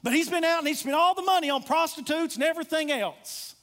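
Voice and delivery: acted indignation, pushing the accusation; angry older brother. Older brother telling on his brother to Dad, angry. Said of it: "I can imagine the anger of the older brother".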